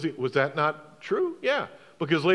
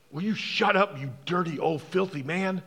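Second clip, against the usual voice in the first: acted scolding at restrained volume; stern hushing. Crowd tells the outcast to be quiet, stern. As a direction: put him down with contempt, without shouting. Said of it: "Many were sternly telling him to be quiet".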